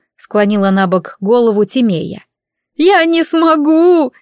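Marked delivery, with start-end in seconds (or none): 2.8-4.1 high, slow, loud sobbing wail. Acted. Madina sobbing to her friends that she cannot go back. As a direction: drag the words out through sobs. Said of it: "прорыдала Мадина".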